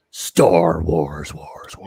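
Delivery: whispered echo, fading out. Pretend. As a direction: breathe the title like an echo. Reverent echo of movie title.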